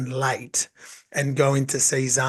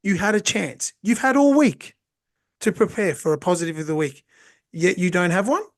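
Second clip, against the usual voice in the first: higher, rising scolding challenge; teacher reprimand; 4 semitones higher than usual. Retold or imitated. Teacher challenging a student with no answer, scolding. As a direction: tell them off for not preparing.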